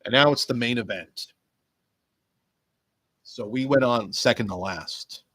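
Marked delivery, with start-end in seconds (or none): none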